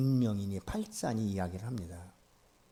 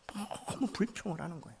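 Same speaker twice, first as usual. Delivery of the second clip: whisper; 5 semitones higher, 8 dB quieter than usual. Real, not acted. Aside on Israelites' complaining.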